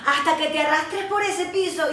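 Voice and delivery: loud contemptuous rant at your own weakness; harsh self-scolding. Retold or imitated. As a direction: lash out at yourself loudly. Harsh inner voice berating herself.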